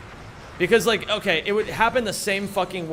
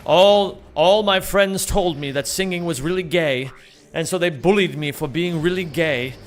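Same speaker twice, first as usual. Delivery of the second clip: mock contestant sob story; 5 dB louder than usual.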